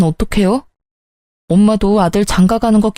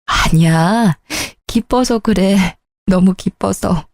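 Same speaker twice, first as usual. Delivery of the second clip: tearful joy; slower than usual. Acted. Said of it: "아, 왜 우세요?".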